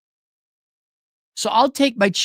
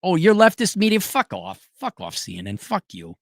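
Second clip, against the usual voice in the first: mocking dismissal; 2 semitones higher than usual. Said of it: "You could be like the Trump administration".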